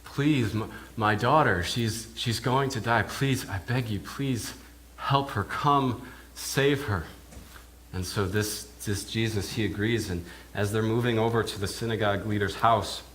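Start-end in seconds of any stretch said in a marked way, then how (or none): 0.0-7.0 a desperate father begs for his dying daughter; slow, pleading close; begging father. Retold or imitated. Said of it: "he begins begging".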